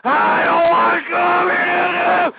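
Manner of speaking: slow, sobbing shout; tearful shout. Acted. Ranting host, tearful outburst.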